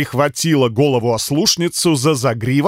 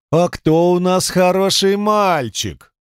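put-on higher, slow baby talk to a dog; cooing to a pet; 4 semitones higher, slower than usual. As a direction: coo at the good boy, slow. Woman baby-talks to dog. (сюсюканье с собакой, выше и медленно)

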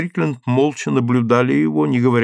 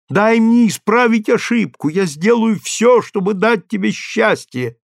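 much higher and louder, rising to near tears; desperate pleading; 6 semitones higher, 4 dB louder than usual. A narrator's reading. Husband begging his wife, higher and louder, desperate. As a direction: pour it all out, begging.

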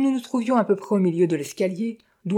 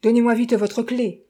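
louder, higher urgent cry for the key; a louder, higher urgent call for the key; urgent shout; 5 semitones higher, 4 dB louder than usual. Acted. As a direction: demand the key in a hurry. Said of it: "criai-je".

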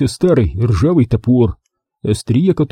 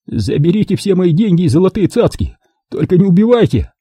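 pleading; 8 semitones higher than usual. A narrator's reading. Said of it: "взмолился Пашка Самар".

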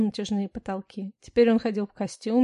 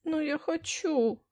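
put-on high, slow childish whine; whining; 6 semitones higher, slower than usual. Wife whining to her husband about the sea. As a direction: whimper it like a spoiled child. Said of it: "захныкала я".

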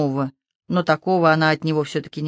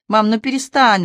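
upset plea; 5 semitones higher, 5 dB louder than usual. Acted. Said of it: "расстроенно попросил он".

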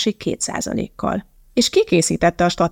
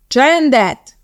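higher and louder yelled order; 6 semitones higher, 6 dB louder than usual. Acted. Coxswain roaring for silence, yelling. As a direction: roar it down the boat. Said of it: "ordított a kormányos".

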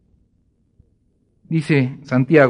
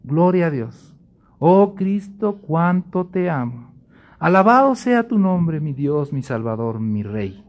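mock worship; 3 semitones higher than usual. Preacher imitating a congregant mid-praise, lightly fervent. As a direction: imitate someone praising God in church.

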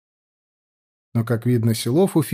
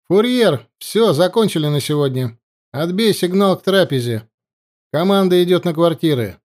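commanding order; 4 semitones higher than usual. Acted.

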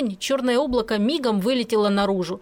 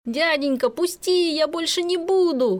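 higher, pleading through laughter; laughing plea; 7 semitones higher than usual. A narrator's reading. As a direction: beg to be let go while laughing. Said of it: "хохотал Есеня".

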